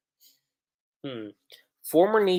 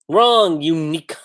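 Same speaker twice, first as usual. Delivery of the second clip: sharp loud wrong, pitched up; mock shout; 3 semitones higher, 8 dB louder, slower than usual. Reacting to the dub, a loud mock shout. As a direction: snap it out like a scolding teacher.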